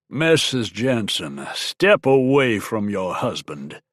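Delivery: slow, sharp order from an officer; sharp, strident command. Acted. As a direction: bark it out slowly, strident. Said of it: "The sharp, strident voice".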